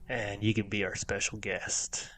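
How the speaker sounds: soft unvoiced whisper. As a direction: whisper it like a secret. Spooky invitation to the Bunny Man.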